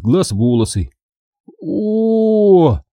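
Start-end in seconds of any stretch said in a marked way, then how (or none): 1.6-2.8 long high "ooh"; choked groan. Acted. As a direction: groan as if choking. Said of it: "Я поперхнулся и зашёлся в кашле". (протяжный сдавленный стон)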